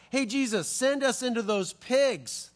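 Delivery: a hint of whiny pleading; begging demons, lightly voiced. Demons beg Jesus for the pigs, mildly whiny. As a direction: plead with Jesus like a sheepish kid. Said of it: "they're like".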